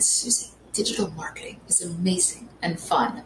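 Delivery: soft, half-whispered attempt at a British accent; a lightly done, self-conscious British accent; imitating British accent. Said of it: "that was me trying to do her British accent".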